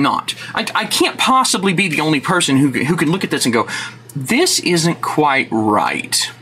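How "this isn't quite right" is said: mock calm remark. Mock reasonable voice in rant.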